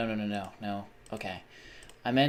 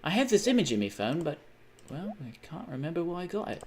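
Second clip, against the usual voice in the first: higher-pitched attempt at Southern English; Southern English accent; 6 semitones higher than usual. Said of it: "get better at my Southern English accent".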